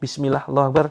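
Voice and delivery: Bismillah, Allahu Akbar called out loud and hard. Shown as a demonstration. Healer shows patients how hard to say it, loud call. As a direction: strike each word loud, like a blow. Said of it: "dengan cukup keras".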